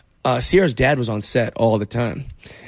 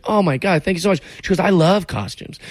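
gushing Beyonce; 5 semitones higher than usual. Retold or imitated. Beyonce thrilled.

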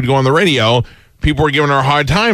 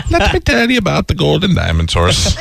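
Mrs. Doubtfire impression; 4 semitones higher than usual. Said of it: "it's Missus Doubtfire".

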